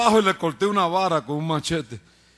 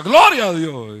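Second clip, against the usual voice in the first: mock praise; 12 dB louder, slower than usual. Mock praise among the inmates.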